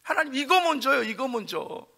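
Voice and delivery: put-on a touch of childish pleading, fading off; half-hearted fussing; mild whining. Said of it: "투정 부리듯이". (가볍게 투정 부리듯이)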